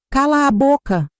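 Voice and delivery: high furious yell; bellowing. A narrator's reading. Bruno yells at his wife to shut up, furious. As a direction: roar it at her to shut up. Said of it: "Bruno berrou para a esposa".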